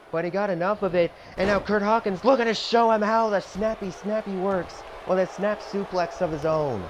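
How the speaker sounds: energetic ringside play-by-play; wrestling commentator. Acted. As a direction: call every move like live TV. Commentating the simulated match.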